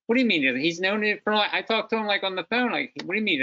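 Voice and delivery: re-enacted incredulous questioning; retold disbelief. Retelling his baffled reply to father.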